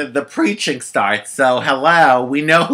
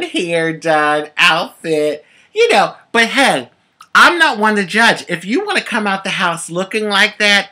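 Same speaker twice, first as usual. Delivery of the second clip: sassy rant; 5 semitones higher, 3 dB louder than usual. Real, not acted.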